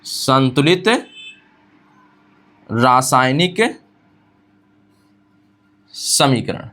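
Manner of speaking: each word spaced out with long pauses; teacher reading out a starred heading to copy, word by word; slow dictation. Shown as a demonstration. Dictating a key term slowly to students. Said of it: "star बना के लिखता हूँ".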